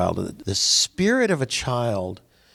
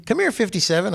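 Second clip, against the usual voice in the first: calling a cow; 9 semitones higher, faster than usual. Acted.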